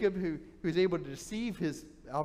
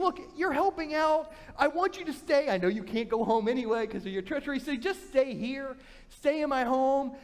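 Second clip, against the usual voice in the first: higher, coaxing uncle voice; persuasive uncle; 5 semitones higher than usual. Acted. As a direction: talk him into staying. Laban persuades Jacob to stay.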